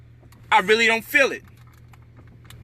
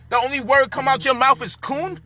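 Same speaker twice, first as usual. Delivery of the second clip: barely believing they said coon; incredulous; 5 semitones higher than usual. Real, not acted. Disbelief at one-word reply.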